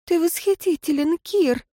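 high, light woman's voice; dreamy praise. A narrator's reading. Woman praising her lover, high and dreamy. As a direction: gush at him happily.

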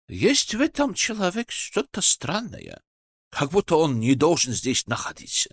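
a hint of a puzzled old genie; genie character voice. Genie voice, uneasy.

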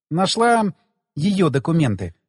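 hesitant break after «Нашла»; faltering pause. Acted. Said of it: "Она тоже запнулась".

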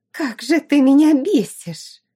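high, loud furious shriek; shrill furious squeal of a marquis's daughter; shrieked fury. Acted. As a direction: shriek it at her, enraged. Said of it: "взвизгнула дочь маркиза".

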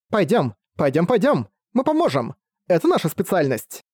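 high eager little fairy; playful fairy voice. Acted. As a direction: cheer like a prankish sprite. Fairies eagerly lead the way.

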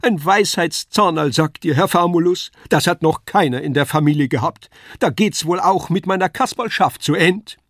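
high, loud puppet-clown whining; Kasperl lamenting. A narrator's reading. Kasperl bemoaning his wisdom tooth to Wagner, high wailing. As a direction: bewail it theatrically in a high voice. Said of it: "jammerte Kasperl".

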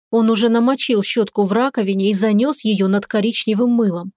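ordinary delivery, nothing marked

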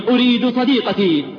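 anguished cry, أريد hit hard. Retold or imitated. Dying man's plea, louder.

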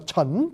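"trẩn" with the CH of English church; pronunciation demo. Shown as a demonstration. Teacher showing the king's-subject reading, pronunciation demo. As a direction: start "trẩn" on a firm ch sound. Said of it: "cái âm của the church của tiếng Anh viết là C".

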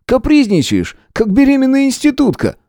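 high-pitched, worked-up scolding; faltering, agitated. A narrator's reading. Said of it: "Сбивающимся тоном заговорил Шуляк". (взволнованно, на повышенных тонах)

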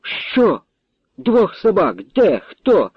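high, rapid outraged questions; furious questioning. Acted. Count interrogates the major about his dogs, furious and high. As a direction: demand answers in a rage. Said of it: "Люті графської нема межі".

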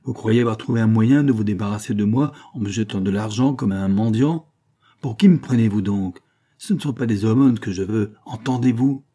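exasperated. Acted. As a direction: hurl it back, fed up and insulted. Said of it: "s'exclama Bernard exaspéré". (exaspéré, plus fort)

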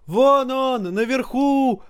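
very high, sharp shout; shouted from crowd. A narrator's reading. Someone in the crowd shouts where the thrower is, very high. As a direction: point and yell from the crowd. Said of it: "крикнул кто-то из толпы".

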